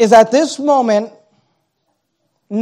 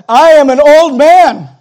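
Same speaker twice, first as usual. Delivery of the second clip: whining excuse; 5 semitones higher, 8 dB louder, slower than usual. Acted. Zacharias's excuse.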